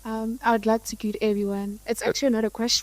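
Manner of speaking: soft, timid-volume speech, hard to catch; too quiet. Real, not acted. Student greeting the room before a question, too quietly. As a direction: say it softly, under normal speaking level. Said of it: "Would you mind speaking up just a little?".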